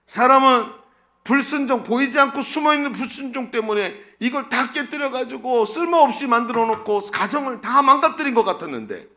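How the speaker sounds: loud, high, insistent preaching; 격앙된 설교. Real, not acted. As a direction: hammer it out at full force, pitch held up high. (높고 크게 몰아치며 외치는 설교)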